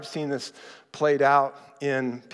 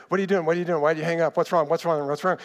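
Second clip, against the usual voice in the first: rapid-fire badgering; faster than usual. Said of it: "He would start texting her".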